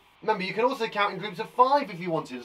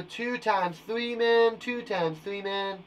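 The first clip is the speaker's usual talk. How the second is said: playful put-on voice; 5 semitones higher, slower than usual. Playful put-on voice saying man.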